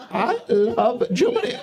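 slow, mock German accent. Comedian teases German tourist Toby, mock German accent. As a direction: stretch it out in a comic German accent. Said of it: "one of the few accents we're allowed to do".

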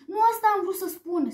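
high, frustrated exclamation; upset shout. A narrator's reading. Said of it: "strigă Amber supărată". (strigăt supărat)

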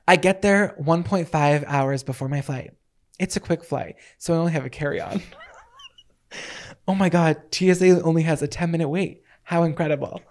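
dramatic monologue reading. Shown as a demonstration. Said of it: "monologue I wrote".

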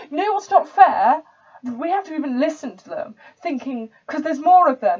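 put-on bitter posh-accented tirade; dodgy posh accent. Posh student railing at those he must listen to, in an indignant posh accent. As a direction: spit out resentment in a posh accent. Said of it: "the accent's a bit dodgy".

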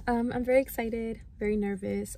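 talking while chewing gum; gum in mouth. Real, not acted. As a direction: speak around a piece of gum. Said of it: "I have gum in my mouth".

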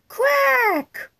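high loud quack; duck quack. Acted. Duck noise.

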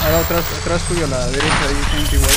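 urgent callout. Real, not acted. Urgent teammate warning in firefight.

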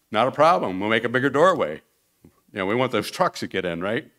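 brightly loud, can-do builder; cheerful booming assurance; eager reassurance. Retold or imitated. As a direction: sell it like no trouble at all. Builder Rich cheerfully agrees.

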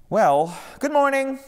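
high, slow drawn-out greeting; bright interruption. A narrator's reading. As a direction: sing out the morning cheerfully. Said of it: "interrupted a newcomer".

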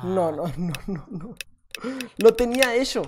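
ordinary talk, nothing marked

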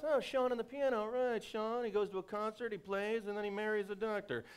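high, quick, know-it-all voice; rushed predictable thinking. Retold or imitated. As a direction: breeze through the obvious plot. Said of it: "think to ourselves".

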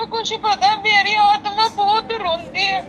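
pushing through tears; tearful. Real, not acted. Weeping daughter interrupts the caretaker.

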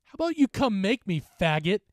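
put-on drunken slurring challenge; slurred drunk taunt. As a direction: slur it like a drunk bully. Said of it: "he slurred back".

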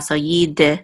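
"yid" with a short "eh" after the d; sounded shva. Shown as a demonstration. Teacher showing a student the shva, sounded shva. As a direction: pronounce "yid" as yi-de, releasing the d into a vowel. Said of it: "we're gonna pronounce this, this, this shava".

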